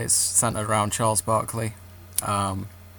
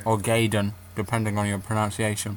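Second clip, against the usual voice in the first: talking through chocolate; eating chocolate. Real, not acted. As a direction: mouth full of chocolate. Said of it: "I got chocolate in my mouth".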